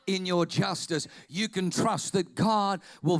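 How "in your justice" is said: lower, reverent adoration; humble worship. Pretend. Kneeling before the cross, praying in reverent awe. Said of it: "I fall on my knees in front of the cross saying".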